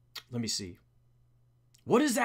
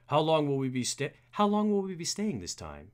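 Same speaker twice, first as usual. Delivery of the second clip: lightly voiced butler, rising; a hint of butler, lifting in pitch; Alfred; 3 semitones lower than usual. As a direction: try out a tentative butler voice. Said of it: "we need a voice for Alfred".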